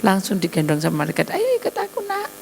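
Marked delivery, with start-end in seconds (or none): 1.3-2.3 high gentle call. Acted. Angel calling baby.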